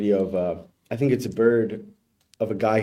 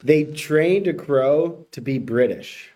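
headline read; 3 semitones higher, slower than usual. Shown as a demonstration. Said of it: "I'm gonna give you the headline".

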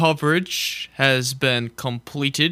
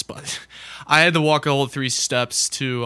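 laughing. Real, not acted. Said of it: "I can't even say that with a straight face".

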